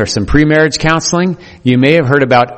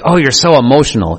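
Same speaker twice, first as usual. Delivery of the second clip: a touch of irritation, held mostly level; husband mildly snapping at his wife; mock angry tone; faster than usual. Husband complains to wife, in a lightly angry tone. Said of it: "in an angry tone".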